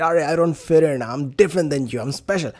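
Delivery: lightly voiced self-styled rebel; mock rebel. Speaker imitating how society portrays non-conformers, lightly mock rebel. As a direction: put on a slight "I'm special" act. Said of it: "rebel হিসেবে দেখানো হয়".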